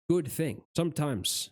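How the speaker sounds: losing voice, a bit hoarse; raspy from talking too long. Real, not acted. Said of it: "and I'm losing my voice".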